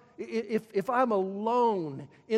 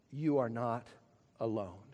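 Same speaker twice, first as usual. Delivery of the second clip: much lower and softer, almost hushed; soft reassurance; 9 semitones lower, 6 dB quieter than usual. Acted. Pastor comforting the church, soft and low. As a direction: let it fall gently.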